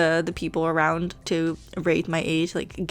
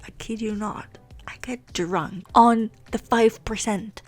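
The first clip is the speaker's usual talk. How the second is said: whispering; 3 semitones higher, slower than usual. Real, not acted. Confessing a funny secret.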